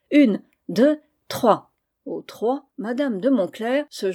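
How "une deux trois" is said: loud, high count; aunt cueing everyone to embrace, counting loudly. A narrator's reading. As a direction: call out the count like a game signal.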